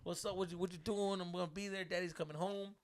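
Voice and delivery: high-pitched, cocky eagerness; excited. Retold or imitated. Boyfriend announcing his return to girlfriend, excited. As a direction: chatter eagerly to your sweetheart. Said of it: "exciting 'cause then you're like".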